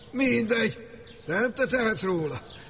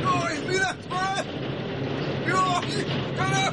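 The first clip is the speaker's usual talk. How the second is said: high, drawn-out mock lament; put-on cry of alarm, held long; staged horrified wailing; 9 semitones higher, slower than usual. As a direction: wail as if discovering an accident. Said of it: "Hogy te kiabálsz".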